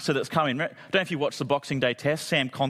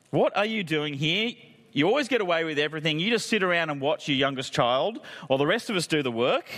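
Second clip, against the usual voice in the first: mock sibling grievance; 2 semitones higher than usual. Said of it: "giving a bit of my therapy here".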